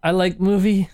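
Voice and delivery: badly faked positive intro; fake positive. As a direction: pretend to like it, a little high. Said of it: "You gotta do the fake".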